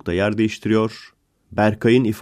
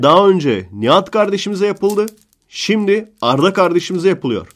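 mock partisan pundit; 4 semitones higher than usual. Pundit defending Arda to the reporter, worked-up rant. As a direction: lecture the reporter like a fired-up defender.

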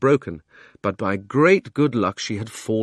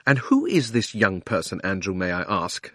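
coolly restrained icy question. Acted. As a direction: ask with a touch of frosty disapproval. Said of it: "in icy tones".

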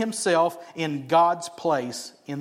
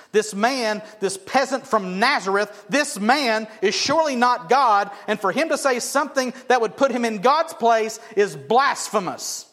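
indignant scribes; 5 semitones higher, 3 dB louder than usual. Retold or imitated. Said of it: "they are righteously indignant".

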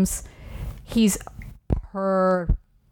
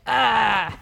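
fed-up yell; 2 semitones higher than usual. Retold or imitated. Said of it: "he's fed up and he's just like".

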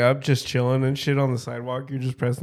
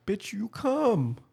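slow mock retort; 7 semitones higher, 4 dB quieter, much slower than usual.

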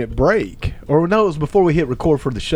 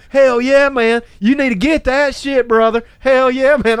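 higher, louder pumped-up urging; hyped-up buddy; 8 semitones higher, 4 dB louder, slower than usual. Retold or imitated. Cotton cheering his buddy on, excited and loud. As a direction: egg him on like a hyped friend.

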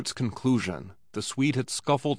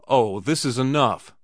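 pleading; 3 semitones higher, 4 dB louder than usual. Acted. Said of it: "he pleaded".

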